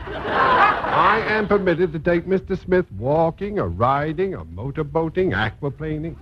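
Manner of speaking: laughing gloat. Acted. Ex-husband gloating over court writ.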